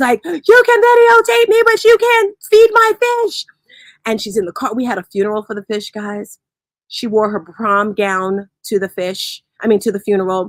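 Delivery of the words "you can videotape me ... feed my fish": very high, loud, shrill screeching outcry. Acting out a woman screaming at you for videotaping her: imitating someone screaming. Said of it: "And she's screaming".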